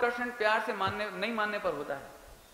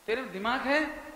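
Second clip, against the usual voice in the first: angry scold; 4 semitones higher than usual. Retold or imitated. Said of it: "पांचवी बार में भी नहीं मानी".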